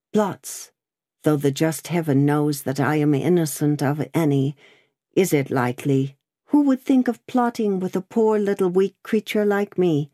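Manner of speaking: a hint of a meek young woman; young seamstress. Seamstress pleads innocence.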